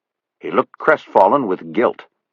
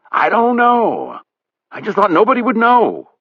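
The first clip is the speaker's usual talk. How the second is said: guilty Buddy; 4 dB louder than usual. A narrator's reading. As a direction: mumble it like a caught man.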